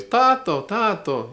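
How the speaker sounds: put-on high, loud child's call of Tato, Tato; child calling dad. Little child in the marketplace calling for father, high and loud. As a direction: call for daddy like a small child. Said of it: "little children in the marketplace".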